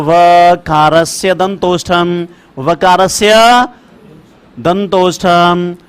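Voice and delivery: slow chanted sutra, last words drawn out; sutra recitation. Shown as a demonstration. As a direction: chant the rule slowly for dictation. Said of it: "यानी दंतोष्ठ वाला".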